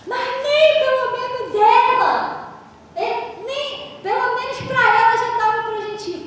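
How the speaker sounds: pleading demand. Retold or imitated. Woman pleads for fare money.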